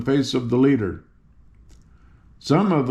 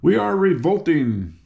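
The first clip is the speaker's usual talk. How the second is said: fierce; 5 semitones higher than usual. Acted.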